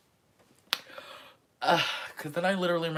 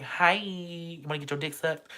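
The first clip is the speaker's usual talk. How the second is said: retold flirty catcall; 2 semitones higher than usual. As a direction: call out suggestively to a passing crush. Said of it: "cute guys would walk past".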